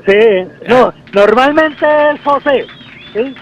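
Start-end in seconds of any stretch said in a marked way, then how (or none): 1.1-2.7 "José" con fuerza en la última E; stress on the final E. Shown as a demonstration. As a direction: marca bien la tilde en "José". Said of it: "La tilde en la última E". (acento en la E final de "José", lento y claro)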